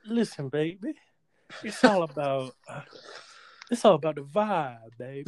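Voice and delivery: playful hint of African American vernacular; put-on African American vernacular. Salesman preaching the vibe to co-host, lightly mock African American vernacular. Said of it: "Are we not allowed to do that".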